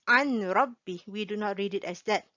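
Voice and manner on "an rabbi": an-rabbi with a clear n before r; wrong reading an-rabbi. Shown as a demonstration. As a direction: show the wrong an-rabbi, n sounded.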